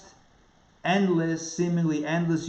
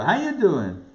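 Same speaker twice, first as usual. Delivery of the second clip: put-on New York accent; 3 semitones higher than usual.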